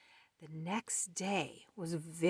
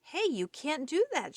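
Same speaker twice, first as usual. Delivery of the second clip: shouted; 9 semitones higher than usual. Acted. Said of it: "shouted Beaver".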